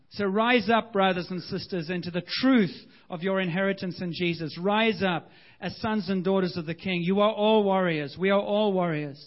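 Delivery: rousing preaching. Acted. Exhorts congregation to rise.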